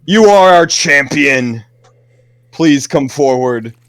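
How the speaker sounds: lightly voiced otherworldly figure; a hint of a solemn spirit; mysterious entity voice. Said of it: "You hear a voice say".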